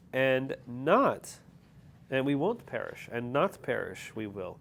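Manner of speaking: Yoda voice. Retold or imitated.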